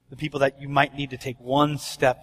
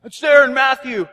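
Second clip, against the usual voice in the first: high, louder mock insistence; insistent questioner; 8 semitones higher, 6 dB louder than usual. Questioner pointing a friend to Matthew, high mock insistence. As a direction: pitch it up, acting sure of the source.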